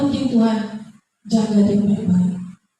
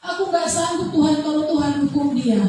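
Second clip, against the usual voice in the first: higher, pleading prayer, slowing at the end; retold tearful prayer; 4 semitones higher than usual. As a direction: beg God to spare him, voice lifted and yearning. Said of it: "Saya katakan seperti itu kepada Tuhan". (doa memohon dengan suara tinggi, melambat di akhir)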